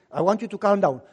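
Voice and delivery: wife calming her husband, low and soothing; wife's calming voice. Retold or imitated.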